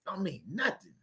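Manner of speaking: breathy unvoiced brush-off in court; whispered dismissal. Imagined spouse in court whispering a dismissive brush-off. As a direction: whisper it like nothing matters. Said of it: "you standing up like".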